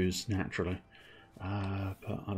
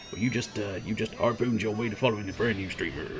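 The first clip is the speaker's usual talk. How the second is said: put-on Western accent. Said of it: "gonna have to go into the Western".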